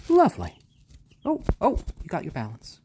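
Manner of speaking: high pet-talk coo. Real, not acted. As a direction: squeal it up high for the chick. Cooing at chick.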